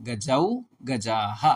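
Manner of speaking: slow, deliberate chanting of forms; slow recitation. Shown as a demonstration. Teacher reciting Sanskrit noun forms to students, slowly. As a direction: spell out each form slowly for students.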